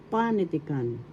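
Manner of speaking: panitikan with a long stressed PA; teacher's model of panitikan, accent on PA; stress on first syllable. Shown as a demonstration. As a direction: lean on pa at the start of panitikan. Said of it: "The accent is in the first syllable".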